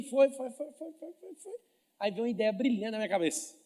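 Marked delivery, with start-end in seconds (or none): 0.0-1.5 rising repeated foi. Retold or imitated. Voicing a stretched repetition.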